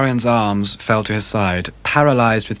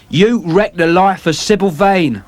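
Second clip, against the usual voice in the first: vengeful sailor; 7 semitones higher, 4 dB louder than usual. Acted. James Vane accuses Dorian.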